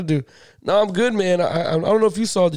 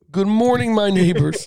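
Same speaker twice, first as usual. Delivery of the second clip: mock yelled greeting; 2 semitones higher than usual. Retelling a greeting yelled to the neighbors, mild mock yell. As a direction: call out cheerily, a mild yell. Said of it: "I yelled out to the neighbors".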